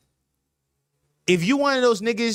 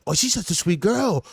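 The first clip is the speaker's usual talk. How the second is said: put-on high, loud cooing baby talk; 5 semitones higher, 4 dB louder than usual. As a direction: coo at a cute pet. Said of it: "like, a baby voice".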